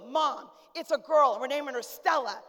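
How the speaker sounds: imitating an excited son telling his mom; retold big family announcement; proud announcement. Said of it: "he goes".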